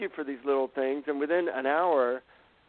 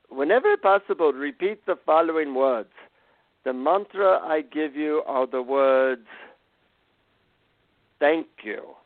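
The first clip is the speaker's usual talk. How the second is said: put-on Indian accent. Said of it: "in his Indian accent".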